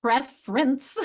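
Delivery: Preference as two syllables, PREF-rence; dropped syllable. Shown as a demonstration. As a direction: lose the middle vowel of Preference. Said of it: "I'm losing a syllable there".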